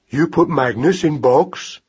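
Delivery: put-on slow, childlike mouse voice; puzzled young mouse. Mouse misunderstands the word box, slow and puzzled.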